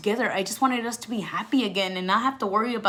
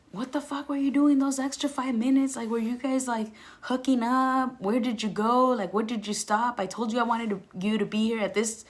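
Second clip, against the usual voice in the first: jealous tirade; 3 semitones higher than usual. Retold or imitated. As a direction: grill him for being five minutes late. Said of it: "I'm ripping him a new one".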